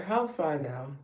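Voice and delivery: casual, lightly Nigerian-accented greeting. Shown as a demonstration. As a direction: toss out an everyday greeting in a mild Nigerian accent. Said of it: "in a Nigerian accent right now".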